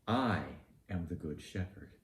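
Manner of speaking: "I am the good shepherd." with "I" stretched and stressed; emphatic I. Shown as a demonstration. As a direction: lean hard on "I" to claim it. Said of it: "It is emphatic".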